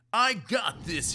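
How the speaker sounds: loud, high, confident shout. A narrator's reading. Friend teaching him, shouting the phrase loudly. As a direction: belt it out like a cheer. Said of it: "he shouted".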